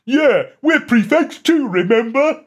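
high, slow snarling retort. Acted. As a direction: snarl it back at him. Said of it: "snarled Ron".

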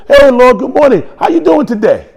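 loud, high, bright hello; cheery greeting. Retold or imitated. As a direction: call it out brightly to a friend. Acts out cheery greeting to God.

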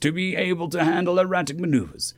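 tactical officer explaining. Acted. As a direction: start on a high "well", then explain to a superior. Officer explains enemy's thinking.

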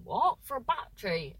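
incredulous, jump up on What; can't believe the price; shocked question. Retold or imitated.

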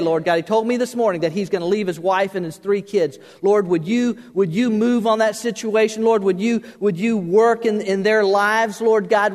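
a touch of fervent pleading prayer; mildly earnest praying man, pausing between pleas; lightly voiced man praying aloud; retold prayer. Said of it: "let him go on and keep praying".

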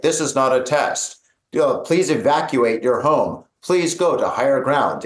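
lightly imitated low recorded warning; recorded announcement. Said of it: "like, a recording".

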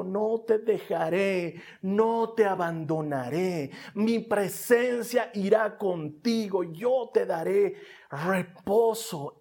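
slow, gentle voicing of God; tender promise. Preacher voicing God's promise to the listener, slow and tender. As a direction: speak it like a soothing vow.

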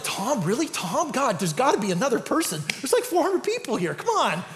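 half-laughing plea to God; laughing protest. Retold or imitated.

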